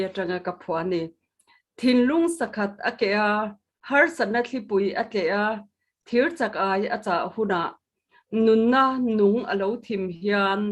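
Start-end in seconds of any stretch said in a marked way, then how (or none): 1.8-10.6 measured poetry recital; solemn poem reading; poem recitation. Acted. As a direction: give each verse line its weight. Poet recites own poem.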